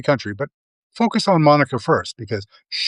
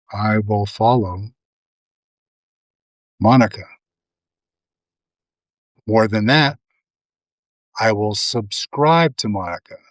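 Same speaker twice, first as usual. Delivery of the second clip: cult leader. Pretend. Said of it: "I'm gonna say this like a cult leader".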